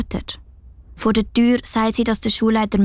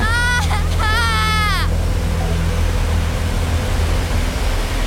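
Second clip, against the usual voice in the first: verzweifelte laugh; 12 semitones higher than usual. Acted. Verzweiflung, Lachen mitten im Weinen.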